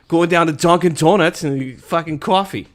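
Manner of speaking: put-on offhand Boston accent; Bostonian accent. Player riffing on Dunkin' Donuts, Bostonian accent.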